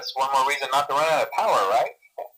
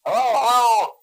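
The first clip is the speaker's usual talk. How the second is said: higher, louder hello on the line; higher hello, hello into the phone; calling hello; 9 semitones higher, 6 dB louder than usual. Acted. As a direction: check if anyone's there.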